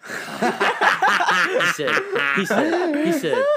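high, loud laughter through the words; can't get past the laugh; real giggling fit, words repeated. Real, not acted. Laughing before quote.

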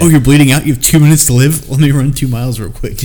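mock soldier. Friend mocks the veteran, hammed-up eager soldier. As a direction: play the overkeen soldier ready to run.

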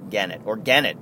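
Gennett with a hard G, stressed on GEN; trying out pronunciations. Shown as a demonstration. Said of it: "Maybe that's it".

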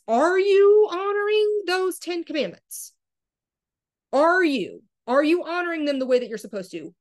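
high, loud, insistent questioning; pointed challenge. Real, not acted. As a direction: confront the listener, stretching the first question. Preacher challenging the listeners directly.

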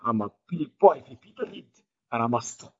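a light Scottish accent, barely put on; a hint of Barry's Scottish accent; Scottish impression. Imitating friend Barry with a light Scottish accent. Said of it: "That's how he sounds".

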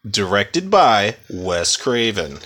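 slow anchorman read with heavy word emphasis; news anchor voice. Retold or imitated. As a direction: introduce the episode like the evening news. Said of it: "if I talk like a news anchor for the podcast".

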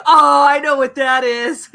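high, slow, laughing dog voice; laughing dog-thought voice, high and slow; voicing the dog. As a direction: play the smug dog who caught on.

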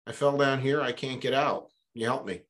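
mock call for help from a pit; yelling up. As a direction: shout up to the priest from down in the hole. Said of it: "and he yells up".

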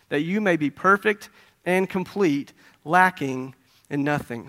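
slow, measured reading from the Bible; scripture reading. Acted. Preacher reads James to his congregation, slow scripture reading. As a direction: read the verse out to the congregation, deliberately.

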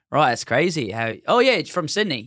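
put-on Australian party voice; bad Australian accent. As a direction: fake an Australian accent while making small talk. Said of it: "Australian accents".

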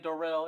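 "Darrell" imitated as a co-host's pronunciation; Darrell as others say it. Co-host correcting his partner's reading, "Darrell" imitated. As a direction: mimic the co-host's way of saying "Darrell". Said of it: "You over here, you over here saying Darrell".

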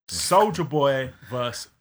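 slow dramatic fight announcer. Pretend. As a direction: announce it like a boxing match. Announcing a clash.

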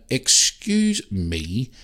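mock posh drawl, slow; a snooty stranger imitated, drawn out; posh lady. Retelling the posh woman scolding him in the mall. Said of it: "Real posh".

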